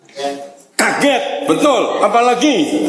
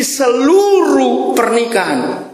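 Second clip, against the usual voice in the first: retold plea; 9 semitones higher, slower than usual.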